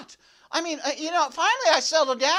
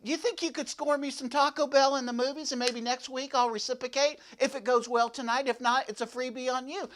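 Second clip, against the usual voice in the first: lower, softer crooning come-on; a low, soft sweet-talking pitch to the gal; smooth low pickup line; 4 semitones lower, 5 dB quieter than usual. Pretend. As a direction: purr it like a slick ladies' man. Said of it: "That's what I should have said".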